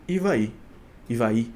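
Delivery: "Ivaí" said slowly and carefully; careful pronunciation. Shown as a demonstration. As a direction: sound out "Ivaí" with care, unhurried. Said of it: "espero que eu não tenha pronunciado errado".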